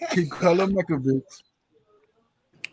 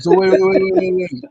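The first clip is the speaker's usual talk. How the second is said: raised voice to interrupt; high loud wait, wait, wait; 8 dB louder, faster than usual. Real, not acted. Cutting in to take the floor.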